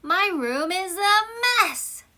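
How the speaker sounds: high, slow dismayed cry; exasperated exclamation. Shown as a demonstration. Teacher acting out an exclamation, high and dismayed. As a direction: groan it out in mock dismay. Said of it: "Exclamation mark".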